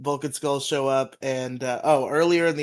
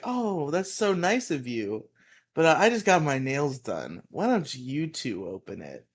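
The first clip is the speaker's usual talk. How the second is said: mock gracious teacher. Teacher thanks two pranksters for a present, mock gracious. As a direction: lightly play a flattered teacher.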